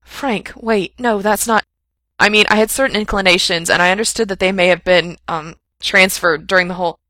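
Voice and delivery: loud, breathless rambling; babbling panic. A narrator's reading. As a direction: gabble on, unable to stop.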